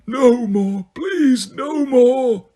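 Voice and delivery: a high-pitched, anguished plea; anguished yell. A narrator's reading. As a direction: cry out that it must end. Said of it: "he yelled again".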